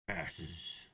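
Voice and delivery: lightly voiced huge devil; a hint of a hulking devil demanding passes; obese devil. Huge devil stopping travellers on the road, lightly voiced. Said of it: "corpulent, extremely obese, uh, devil".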